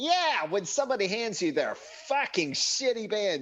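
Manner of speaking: terrible, very high, squeaky, savage comic voice. Retelling what a comedian would say, a terrible David Cross impression. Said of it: "that's a terrible impression of him".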